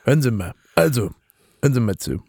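a hint of the old chancellor calming things; Helmut Kohl voice. Playing Kohl in the mock podcast, light chummy voice.

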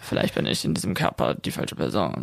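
hushed unvoiced whisper. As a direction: breathe it out, no voice. Jokes about old man voice.

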